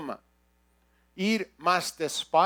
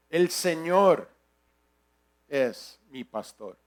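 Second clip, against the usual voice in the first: "Señor" drawn out and set apart; stress on Señor; slower than usual. Shown as a demonstration. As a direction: lean slowly on "Señor", let the rest drop. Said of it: "darle énfasis en una, cada palabra".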